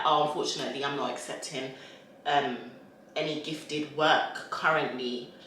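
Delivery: soft, polite refusal; polite decline. Shown as a demonstration. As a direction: turn it down kindly. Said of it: "you just say it in a polite way".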